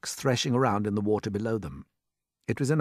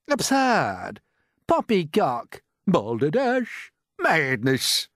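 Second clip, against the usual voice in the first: loud, scoffing exclamations; shouted; 6 semitones higher, 5 dB louder, much slower than usual. A narrator's reading. Others rejecting James's seagull plan, shouting. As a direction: shout each word down in turn. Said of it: "they shouted".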